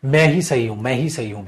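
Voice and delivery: lightly voiced stubborn insistence; dogmatic. Shown as a demonstration. Teacher demoing a dogmatic tone, mildly. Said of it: "डोगमेटिक nature होता है बेटा".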